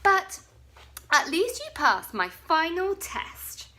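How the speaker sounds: high, loud teasing; mocking. Bonehead teasing his friends for running, loud and gleeful. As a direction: gloat over the daft friends. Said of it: "Bonehead laughed".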